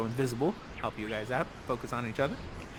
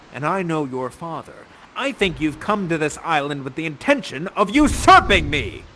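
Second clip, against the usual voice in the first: lightly played stern father, mostly low; stern accusing Prospero; 4 semitones lower than usual. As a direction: open with a sharp call, then accuse. Plays Prospero accusing Ferdinand.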